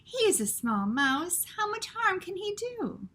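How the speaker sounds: put-on airy French-accented dismissal, high at the end; dismissive French mother. Antoinette dismissing Lester in a French accent. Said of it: "studied her painted nails".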